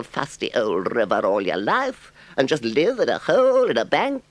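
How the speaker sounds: very high, loud, eager Toad; a boastful toad begging for help; Toad's voice. A narrator's reading. Toad coaxing Ratty.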